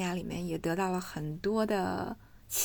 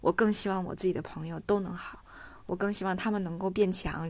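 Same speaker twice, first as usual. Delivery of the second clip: ordinary talk, nothing marked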